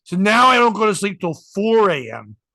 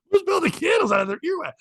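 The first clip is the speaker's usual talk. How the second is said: incredulous shout; 10 semitones higher than usual. Real, not acted. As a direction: yell it in total disbelief. Outraged comic aside.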